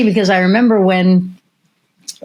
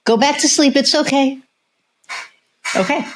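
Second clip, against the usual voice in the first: higher coaxing pet voice; soothing the dog; 8 semitones higher than usual. Real, not acted. Hushing her dog back to sleep, high coaxing tone. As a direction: coax the pup back to sleep, pitched up.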